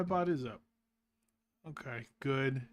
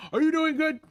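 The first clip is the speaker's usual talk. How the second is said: bright question; 12 semitones higher, 6 dB louder than usual. Real, not acted. Asking chat cheerfully.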